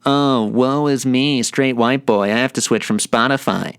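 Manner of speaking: slow, drawn-out woe-is-me whine; exaggerated poor-me lament, dragged out slowly; mock complaining. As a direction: put on a self-pitying moan, mocking yourself. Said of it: "Was I really just complaining?".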